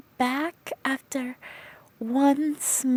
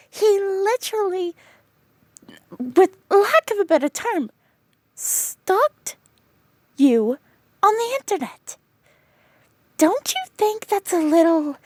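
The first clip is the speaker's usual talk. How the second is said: loud, incredulous telling-off, pitch jumping; exasperated scolding; 2 semitones higher, 4 dB louder than usual. Acted. Friend berates her for ignoring the red flag, exasperated. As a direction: scold her for missing the obvious.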